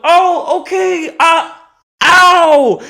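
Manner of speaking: very high, loud strained voice; hammed-up falsetto ow; high pained yelp. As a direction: squeak through the pain. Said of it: "And I go".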